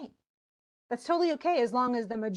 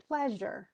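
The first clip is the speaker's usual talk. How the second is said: "Pleasure" as PLEA-sure, ending falling away; "Pleasure" with a strong first syllable, weak second; stress on PLEA; 5 dB quieter than usual. Shown as a demonstration. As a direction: put the stress on the start of "Pleasure". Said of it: "The stress is on ples".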